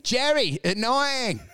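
mock Russian bosses ignoring Jerry; mock dismissive. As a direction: wave Jerry away. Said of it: "and they go".

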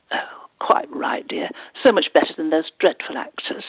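lightly hammed gracious grande dame; mock posh lady. Veteran actress approving a newcomer's husband, mock posh. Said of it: "And she was very posh".

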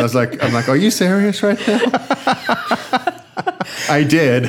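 laughing through the words; high, giddy, laughing delivery. Real, not acted. Laughing about brain geeks.

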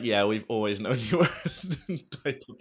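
laughing parent quote. Retold or imitated. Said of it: "I love the way that they're just like".

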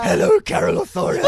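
high, loud mock politician greeting; high loud mock hello, half-shouted; Helen Zille impression. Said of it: "That's how she sounds".

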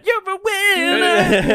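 squeaky high and drawn out; high slow cheer. Pretend. Mock movie cheer.

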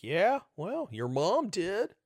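put-on childish needling, stretched out; taunting. Host baiting angry people on Twitter, taunting. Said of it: "when I'm like".

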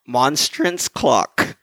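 slow, carefully separated MONSTRANCE CLOCK. Shown as a demonstration. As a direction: say MONSTRANCE CLOCK slowly, holding back a laugh. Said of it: "If I say it fast".

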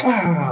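drawn-out gasp of movie fright, acted; scared cry. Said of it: "there's a scary part and you're like".

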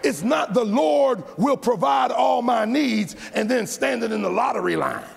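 shouted sermon climax; fiery preaching. Acted. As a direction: hammer it home to the congregation. Preaching at full force.

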